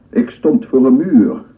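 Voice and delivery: loud desperate cry; anguished outburst. Acted. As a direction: throw the words out in torment.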